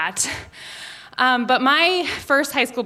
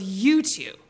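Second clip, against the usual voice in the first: low, quiet sentencing; stern teacher; 4 semitones lower, 4 dB quieter, slower than usual. Retold or imitated. Teacher mom catches her daughter and Caleb, low stern verdict. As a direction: pass sentence in a lowered voice, with a pause.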